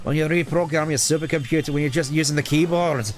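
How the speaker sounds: put-on Tails with a Scottish accent. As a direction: argue back in a Scottish accent. I don't remember you being Scottish.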